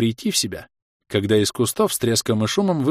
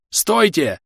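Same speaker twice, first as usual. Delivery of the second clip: shouting; 8 semitones higher, 5 dB louder, slower than usual. Acted. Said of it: "орал бегущий к ним".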